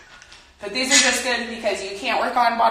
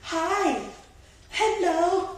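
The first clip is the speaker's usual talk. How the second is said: laughing pet greeting; 9 semitones higher, much slower than usual. Real, not acted.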